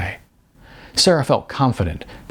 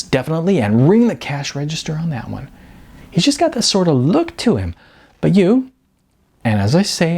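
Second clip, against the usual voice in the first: higher, brisk and candid agent's voice; blunt talent agent; 8 semitones higher than usual. Acted. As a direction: sell the hard truth with sugary frankness. Beth explains types.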